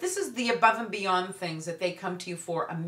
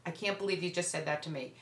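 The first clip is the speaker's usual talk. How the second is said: soft, quieter, hurt disbelief; quiet disengaging; 6 dB quieter, faster than usual. Shown as a demonstration. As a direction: say it softly, then walk away. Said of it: "You completely disengage".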